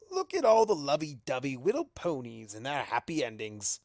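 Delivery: sneering trickster voice; mock the happy couples from above; mocking Discord. Discord taunts the ponies from the ceiling, sneering. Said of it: "says Discord's voice from above".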